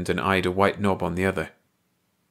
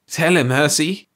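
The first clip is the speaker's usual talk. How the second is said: high alien voice; 7 semitones higher, 5 dB louder than usual. A narrator's reading. The bald alien speaks.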